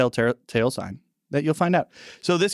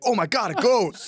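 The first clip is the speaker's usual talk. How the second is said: mock gasp; 10 semitones higher than usual. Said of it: "One of them's like".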